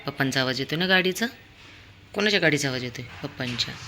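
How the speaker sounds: ordinary talk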